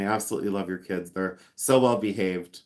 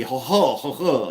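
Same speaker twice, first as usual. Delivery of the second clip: mock-French phlegmy "ho ho". Mocking a pretend-French art guru, phlegmy. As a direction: exaggerate a throaty fake-French chuckle. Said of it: "he's all phlegmy".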